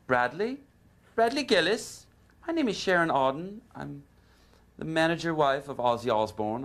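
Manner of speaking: a hint of a woman calling to wake him; wife phoning to wake the guitarist, lightly voiced; female voice. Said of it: "this female voice going".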